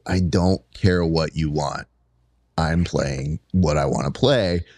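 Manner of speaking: low, slow driver laying down the law; retold firm refusal. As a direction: act out overruling the kids, unbothered. Retold coach overruling yelling kids.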